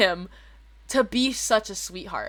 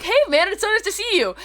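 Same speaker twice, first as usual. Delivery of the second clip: laughing greeting; 9 semitones higher than usual. Retold or imitated. Greeting friend while laughing.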